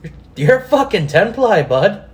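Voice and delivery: ribbing like a Canadian hockey buddy; mock Canadian. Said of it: "I'm turning Canadian, eh?".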